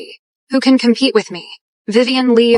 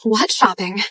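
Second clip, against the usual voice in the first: cold dismissal; 4 dB quieter, slower than usual. Acted. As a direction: drop it flat and cold, brushing it off. Dismissive follow-up, scornful.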